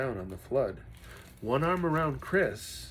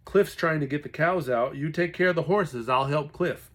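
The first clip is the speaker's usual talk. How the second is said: urgent orders; 4 semitones higher, 6 dB louder than usual. Acted. Dad giving orders in flood.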